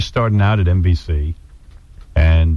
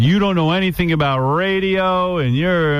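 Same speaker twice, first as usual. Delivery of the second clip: imitated anger; 8 semitones higher than usual. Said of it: "filled with anger".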